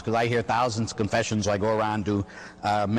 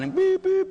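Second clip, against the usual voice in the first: mock horn, much higher and louder; truck horn beeps; 3 dB louder than usual. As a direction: honk like a truck bearing down.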